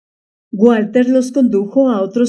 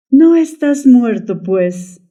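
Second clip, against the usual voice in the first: astonished; 2 semitones higher, slower than usual. Acted. Wife faces her lost lover, astonished. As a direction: ask as if seeing a ghost.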